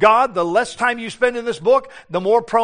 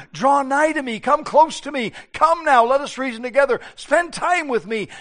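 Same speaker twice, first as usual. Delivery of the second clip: higher, tender invitation, slowing at the end; inviting plea; 4 semitones higher than usual. Retold or imitated. The Father inviting his children near, lightly voiced tender call. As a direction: gently draw the listener close. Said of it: "the father is saying to you".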